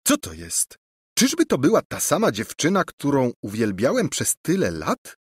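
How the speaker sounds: astonished prince. Acted. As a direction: stare at her as if for the first time. Prince suddenly sees her plainly.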